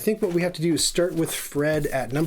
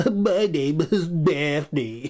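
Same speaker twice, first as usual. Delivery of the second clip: put-on lazy, shiftless, can't-be-bothered teenage voice. A father tries out cartoony voices, starting with a lazy Daphne voice. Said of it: "the most shiftless and lazy".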